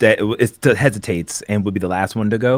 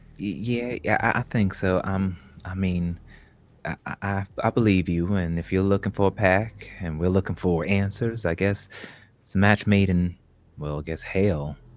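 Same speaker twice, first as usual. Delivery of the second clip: nervous, jittery, stammering, tripping over words; 5 dB quieter than usual. Answering in character whether the talking is done: nervous. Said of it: "I'm nervous".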